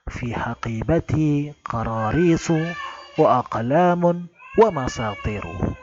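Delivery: teacher demonstrating the correct reading; model reading. Shown as a demonstration. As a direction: read it out as the correct example. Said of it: "dengan bacaan yang benar".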